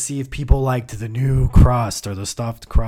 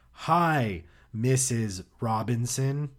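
lightly voiced phone caller; a touch of telemarketer greeting; put-on caller voice; 8 dB quieter, slower than usual. Caller greeting a household on the phone, light put-on voice. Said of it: "I would change my voice".

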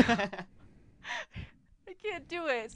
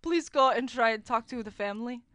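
put-on Russian accent; 3 semitones lower, 3 dB louder than usual. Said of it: "you do a good Russian".

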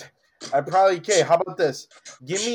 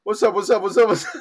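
hype greeting; 3 semitones higher, 6 dB louder than usual. Retold or imitated. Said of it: "I was about to say".

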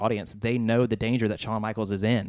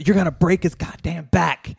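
higher, louder imitation of an angry referee; mock referee yell; 8 semitones higher, 7 dB louder than usual. Referee yelling at Triple H mid-hold, mock angry yell. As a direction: bark it like the ref warning the heel. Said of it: "He says".

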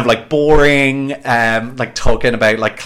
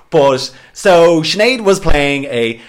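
put-on Welsh accent; 2 semitones higher than usual. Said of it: "putting on the Welsh accent".

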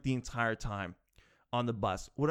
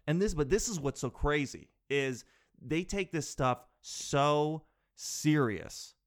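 ordinary talk

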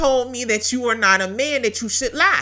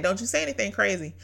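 softer, hushed warning from the Spirit; quiet inner voice; 3 semitones lower, 6 dB quieter than usual. Retold or imitated. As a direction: say it softly like a gentle inner rebuke. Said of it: "I heard the Holy Spirit say that".

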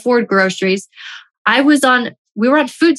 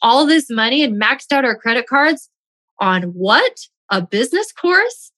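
retold angry husband; 4 semitones higher than usual. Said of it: "He was so mad".

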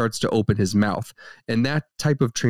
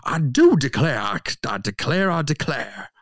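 put-on Savannah Southern accent. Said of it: "practice a Southern accent, a Savannah accent".

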